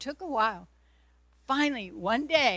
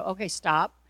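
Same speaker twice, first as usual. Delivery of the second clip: louder firm stop; obedient stop; 5 dB louder than usual. Retold or imitated. Obeying God and telling the voice to stop, louder. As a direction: give the order as told. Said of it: "So I go".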